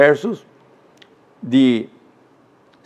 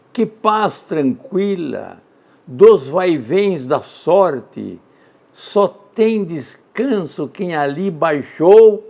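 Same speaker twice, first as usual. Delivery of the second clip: very slow, louder solemn reading; poem recitation; 3 semitones higher, 4 dB louder, much slower than usual. Acted. Teacher reads a Soares de Passos example, slow and solemn. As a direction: hush of midnight in a graveyard.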